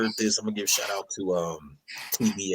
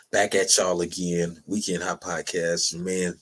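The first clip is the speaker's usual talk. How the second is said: slow sign-off; 3 semitones lower, slower than usual. Acted. Podcast sign-off.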